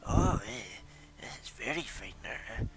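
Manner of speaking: lightly voiced old smoker woman; a hint of a rough old trader peering at silk. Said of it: "very smoker voice type deal".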